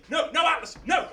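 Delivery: high loud no; protesting shout. Acted. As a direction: cry out to stop him. Hercules protesting.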